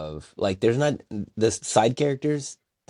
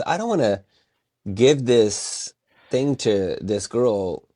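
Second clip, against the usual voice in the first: imitated disdain; slower than usual. Schoolgirl balking at delivering the diploma to her rival, imitated disdain. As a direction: act out a disdainful refusal, slowly. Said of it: "disdain for Kiyomoto, who she's never met".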